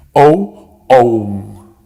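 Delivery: "own" said as one long English "oh-n" sound; pronunciation demo. Shown as a demonstration. Teacher shows students how "own" sounds. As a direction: model "O, own" slowly for students who mix it up. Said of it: "La pronunciación es diferente".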